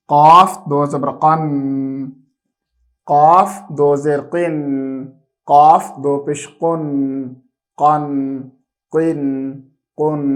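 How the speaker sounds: put-on steady sing-song letter drill, said slowly for children; measured recitation for a child to repeat after. Shown as a demonstration. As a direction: chant each syllable like a classroom takhti reading. Teacher chants the alphabet drill.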